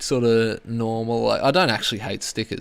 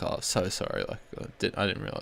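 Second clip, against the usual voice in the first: flustered apology; 4 semitones lower, 9 dB quieter than usual. Pretend.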